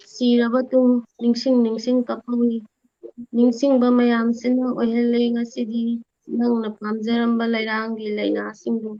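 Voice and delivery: measured verse with gaps between lines; unhurried line-by-line poem delivery; poem recitation. Real, not acted. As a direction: recite steadily, a pause after each line.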